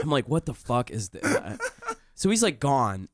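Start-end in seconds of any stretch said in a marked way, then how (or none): 0.3-1.6 slow, laughing disbelief; amused disbelief. Retold or imitated. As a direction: laugh out the question. Laugh while quoting.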